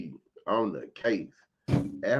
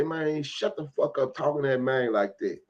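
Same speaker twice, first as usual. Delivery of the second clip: furious, much higher and louder yelling; retold furious shouting at a store clerk; angry shout; 5 semitones higher, 7 dB louder than usual. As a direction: yell it at the cashier, ready to fight. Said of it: "threw the quarter on the counter and say".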